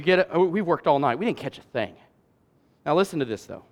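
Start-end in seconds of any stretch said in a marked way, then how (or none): 0.3-1.9 much softer and lower, dragging with fatigue; weary, deflated sigh. Acted. Tired fisherman telling Jesus the night was wasted, softly deflated. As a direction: sound worn out after a long night. Simon's tired complaint acted out.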